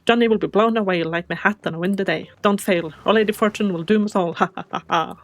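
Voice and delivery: put-on old sea captain with a pirate lilt, booming. Captain asking the little squid for help, pirate voice. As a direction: play the salty captain recruiting his apprentice.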